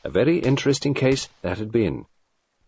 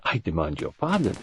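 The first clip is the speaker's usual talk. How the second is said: graceful apology; 3 semitones lower, 4 dB quieter than usual. A narrator's reading. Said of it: "in graceful apology".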